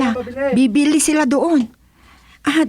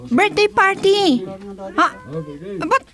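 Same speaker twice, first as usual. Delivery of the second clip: excited; 12 semitones higher, slower than usual. Acted. Woman calling out at party.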